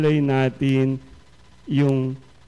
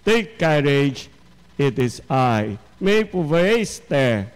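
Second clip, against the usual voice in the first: reassuring words; slower than usual. Acted. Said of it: "Sabi sa Greek".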